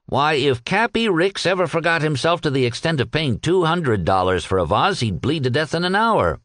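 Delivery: animated, swooping disbelief; lightly voiced scoffing captain. Captain hearing of a costly vase, lightly voiced scoffing. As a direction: scoff at an absurd notion.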